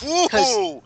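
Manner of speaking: a quick whooping cheer; excited cheer. Real, not acted. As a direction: whoop it up at the good news. Cheering a big quote.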